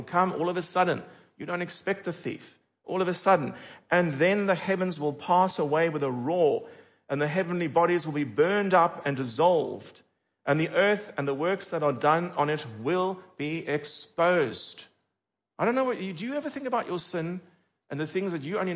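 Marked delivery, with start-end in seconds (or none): 3.9-14.8 steady, weighty reading of judgment; solemn scripture reading. Acted. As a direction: read it out like a proclamation. Reads scripture aloud.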